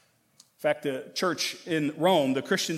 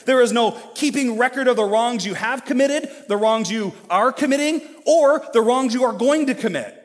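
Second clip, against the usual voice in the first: louder and higher, each "no" driven home; full-force preaching; 4 semitones higher, 4 dB louder than usual. Acted. Pastor assuring his church there is no condemnation, preaching loud. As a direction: preach it, building with every line.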